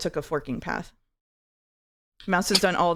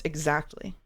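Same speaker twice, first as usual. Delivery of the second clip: put-on Valley Girl uptalk on Exactly; 3 semitones lower, 5 dB quieter than usual. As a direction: end Exactly with a lilting Valley Girl rise. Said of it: "I can do the Valley Girl voice".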